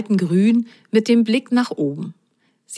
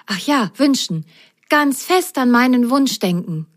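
Rosenrot remembering; 6 semitones higher than usual. Acted.

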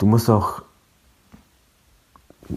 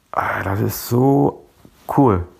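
delighted; slower than usual. Real, not acted. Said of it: "Mein Herz springt da jedes Mal vor innerer Freude".

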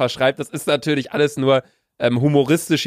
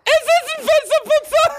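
laughing. Real, not acted. Both crack up laughing.

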